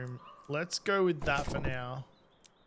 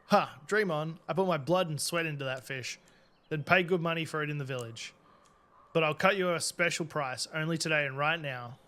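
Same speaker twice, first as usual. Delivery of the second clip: put-on gruff old fisherman. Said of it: "Old fisherman".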